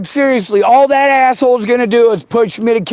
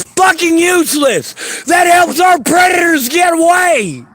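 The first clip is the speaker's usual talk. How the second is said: angry shout; 3 semitones higher than usual. Real, not acted. Rant about ignored victims.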